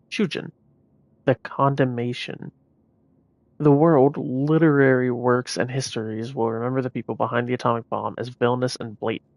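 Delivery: grave, solemn document reading; dramatic reading. Acted. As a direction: read it like a wartime record. Reads in-game document aloud.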